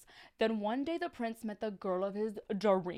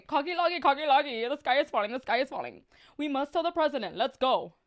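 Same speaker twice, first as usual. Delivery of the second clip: alarmed shout; 4 semitones higher, 5 dB louder, faster than usual. Acted. Chicken Licken raises the alarm.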